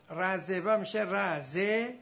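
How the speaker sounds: walk the class through رزوه becoming رزه, slowly; slow demonstration. Shown as a demonstration. Teacher showing students how رزوه changes, slow and deliberate. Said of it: "teacher demonstrates the sound change".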